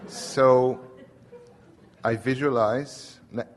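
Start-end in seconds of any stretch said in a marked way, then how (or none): none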